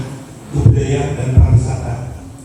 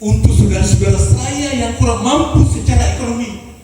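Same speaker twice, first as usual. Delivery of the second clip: impassioned pledge; 7 semitones higher than usual. Real, not acted. Founder dedicates campus, climactic pledge.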